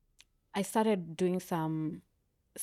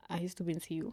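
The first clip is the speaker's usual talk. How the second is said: hushed, softer, sheepish admission; near whisper; 5 dB quieter, much faster than usual. Real, not acted. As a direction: drop your voice as if confessing. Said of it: "Are you whispering?".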